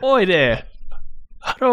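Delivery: high, hammed-up Japanese accent greeting; mock Japanese accent hello; English Japanese accent. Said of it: "That's an English Japanese accent".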